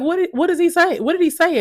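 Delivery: mimicking school staff. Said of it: "they're like".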